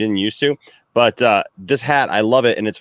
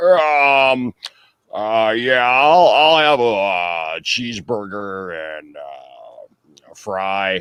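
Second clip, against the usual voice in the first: put-on very slow, halting, fumbling, drunk-sounding speech. Showing a copy of the former father-in-law ordering food: imitating father-in-law, sounding kinda drunk. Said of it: "And I would just be like".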